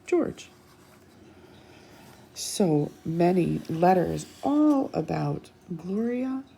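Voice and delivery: put-on lively read-aloud to children; bright picture-book narration; storybook reading. A narrator's reading.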